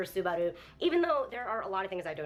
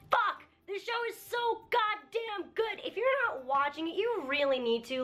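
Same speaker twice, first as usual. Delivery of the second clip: excited rave; 10 semitones higher than usual. Real, not acted. Vlogger urging viewers to watch the anime, excited rave. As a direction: gush at viewers, unable to contain it. Raving about the show to viewers.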